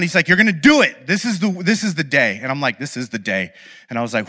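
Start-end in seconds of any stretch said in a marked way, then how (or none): 0.3-2.4 roommate laying down the law, mildly acted; acted insistence from a roommate; firm roommate's push. Roommate pinning the speaker down, firm. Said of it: "he finally pinned me down". 2.8-3.5 low, much softer acted agreement; reluctant echo. Speaker yielding to his roommate, low and subdued.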